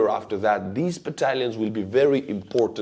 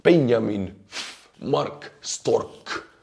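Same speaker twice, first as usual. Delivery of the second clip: Estonian accent; much slower than usual. Real, not acted. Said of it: "butcher their names with my Estonian pronunciation".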